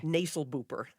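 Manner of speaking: "Nasal booper" said as a reversed word, evenly; backwards speech. Shown as a demonstration. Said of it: "I'll just say it backwards".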